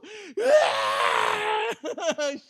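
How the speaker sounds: loud high laughing cry; shouting laugh-cry. Real, not acted. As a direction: let out a shrieking laugh-sob. Recalling crying with father.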